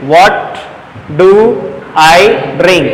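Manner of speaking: What, do, I drink with long pauses between; word by word. Shown as a demonstration. Teacher slowly spelling out the question to students. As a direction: break it into separate words for learners. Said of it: "teacher repeats it word by word".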